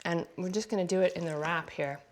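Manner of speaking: talking through a mouthful; mouth full. Real, not acted. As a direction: speak round a bite of food. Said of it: "I'm gonna talk with my mouth full".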